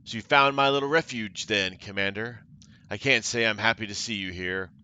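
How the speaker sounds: a hint of a menacing sorceress voice; lightly voiced villainess warning off the commander; threatening sorceress. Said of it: "Her tone is threatening".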